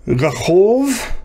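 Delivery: careful "Rachov" with a very short first vowel; careful pronunciation. Shown as a demonstration. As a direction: sound out "Rachov", lightly voicing the first syllable. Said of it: "gonna be a little difficult to pronounce".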